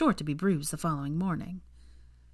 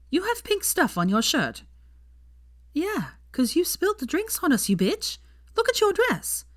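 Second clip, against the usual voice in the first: put-on drunk girl voice; 11 semitones higher than usual. A narrator's reading. Drunk girls bickering.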